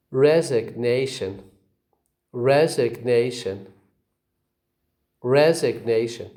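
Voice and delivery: "Resignation" with secondary stress on RES, primary on NA; careful model of "Resignation", both RES and NA stressed; two stresses. Shown as a demonstration. Teacher shows example words, "Resignation" stressed on RES and NA. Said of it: "You see two stresses".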